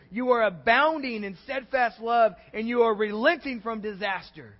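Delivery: loud, anguished complaint to God; Jonah's bitter prayer. Acted. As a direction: cry it out, bitter and dramatic. Preacher voices Jonah's angry prayer.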